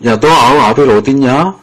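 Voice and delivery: innocent-sounding trap question; sly feigned ignorance. Retold or imitated. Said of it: "능청스럽게". (능청스럽게 모르는 척 묻는 말투)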